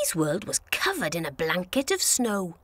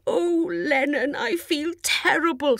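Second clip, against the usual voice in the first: poorly voice; 4 semitones higher than usual. A narrator's reading. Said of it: "said Stomp".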